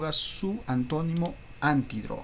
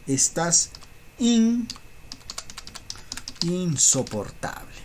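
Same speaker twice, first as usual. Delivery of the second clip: mock scolding; 4 semitones higher, slower than usual. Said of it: "¿qué le dices?".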